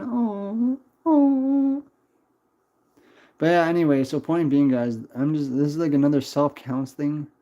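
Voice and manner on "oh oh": a sudden high surprised oh, rising into a yelp. Real, not acted. Streamer caught off guard by a chat comment, surprised yelp.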